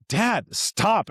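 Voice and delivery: put-on high plea from a laughing-crying kid; son pleading. Son begging his father to quit joking, high plea. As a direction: beg Dad to stop, voice up high.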